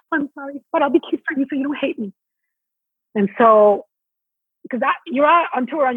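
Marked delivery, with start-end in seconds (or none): 0.1-2.1 higher, fast, sugary apologetic cuteness; cutesy apology. Retold or imitated. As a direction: play it cute so nobody hates you.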